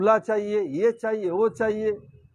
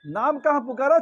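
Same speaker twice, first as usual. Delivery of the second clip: shouting; 4 semitones higher, 4 dB louder than usual. Acted. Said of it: "चिल्ला रही हूँ".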